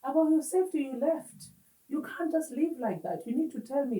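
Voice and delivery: retold firm concern. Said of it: "My tone was not high".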